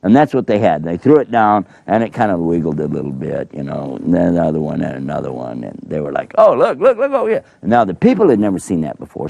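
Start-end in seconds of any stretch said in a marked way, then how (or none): 6.4-7.4 much higher, gleeful show-off; magicians showing off. Pretend. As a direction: crow over the little wiggling sticks. Magicians show off their snakes.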